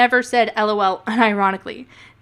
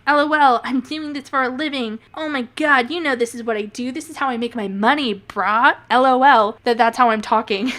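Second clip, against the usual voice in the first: mocking fake self. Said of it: "the idea that I'm like".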